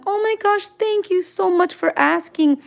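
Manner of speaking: high, grateful gush; gushing thanks. Real, not acted. Streamer thanks a fan for asking about videos, gushing. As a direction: thank them in a high, delighted voice.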